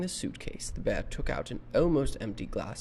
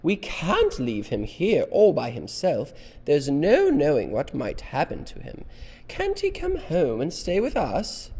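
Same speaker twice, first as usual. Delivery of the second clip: loud, higher, urgent pleading; crying out; 6 semitones higher, 9 dB louder than usual. A narrator's reading. Missus Brown begs Henry for the bear, crying out. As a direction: plead at the top of a lady's voice. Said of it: "she cried".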